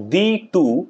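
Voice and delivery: "thee to" in two beats, stress on to; teacher marking out "thee to" as an iamb; iambic stress demo. Shown as a demonstration. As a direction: split "thee to" and lean on to. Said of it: "to-টা হচ্ছে stress".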